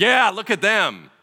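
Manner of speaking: mock smug pointing. Mocking judgmental churchgoers.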